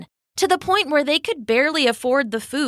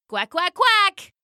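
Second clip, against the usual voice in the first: high, slow duck quacks; determined little duck; duck quacking; 10 semitones higher, slower than usual. Acted. Duck sets off quacking his refrain.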